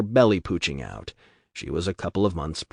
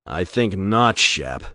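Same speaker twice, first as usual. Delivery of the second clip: growl; slower than usual. Acted. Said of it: "Ryan growled".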